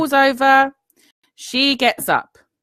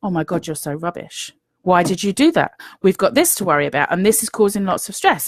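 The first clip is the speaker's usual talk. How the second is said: mock nagging inner voice; 3 semitones lower, faster than usual. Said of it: "The little voice in your head ... says".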